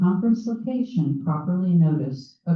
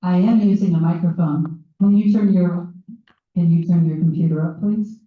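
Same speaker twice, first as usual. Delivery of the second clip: louder and firmer; 8 dB louder than usual. Real, not acted. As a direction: raise your voice to be heard. Repeating over a bad line.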